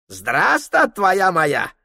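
put-on high, broken-Russian old Tungus voice; Tungus guide. Tungus greeting Prokhor in a high character voice.

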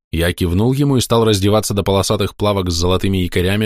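ordinary delivery

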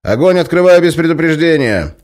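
loud, high threat; shouted warning. Acted. Guard warns the prisoner he will shoot, shouting. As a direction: bark the warning.

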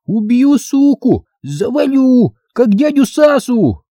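put-on high, squeaky childish threats; lisping kid playing a violent husband; little boy carried away by his role. Boy playing husband threatens girl, high lisping child voice. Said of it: "Входил в роль карапуз".

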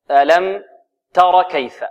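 short final vowel on "تر" before "كيف"; alif dropped. Shown as a demonstration. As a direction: go from the raa of "تر" directly to the kaf. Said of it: "هنا تحذف الألف". ("تر" بفتحة قصيرة دون ألف)

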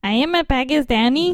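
lightly put-on Pakistani accent; mock Pakistani accent. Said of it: "Pakistan doing your, you know, voiceovers".

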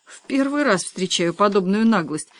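plain reading voice

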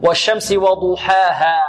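slow وضحاها with a heavy, full ض; drawn-out والشمس وضحاها, heavy Dad. Shown as a demonstration. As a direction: recite والشمس وضحاها slowly, thickening the ض. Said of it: "مفخمة".

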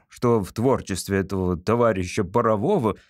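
mildly hesitant father; cautious question. Acted. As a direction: venture the criticism carefully. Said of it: "осторожно спросил папа".

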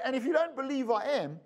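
ordinary talk, nothing marked

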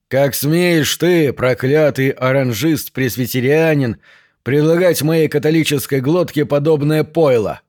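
slow, hammed-up indignation; mock outrage. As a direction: play at being deeply offended. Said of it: "осклабился О'Шоннесси".

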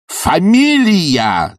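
high, drawn-out roar. A narrator's reading. Bormenthal roars at Sharikov demanding her name. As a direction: bellow the word slowly. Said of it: "заревел он вдруг".

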